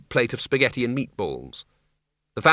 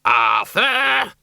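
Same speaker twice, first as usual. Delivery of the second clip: high, loud screamed name; 11 semitones higher, 5 dB louder than usual. A narrator's reading. Doreen fending off a trolley, screaming at Arthur. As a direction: scream his name at him. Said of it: "screamed Doreen".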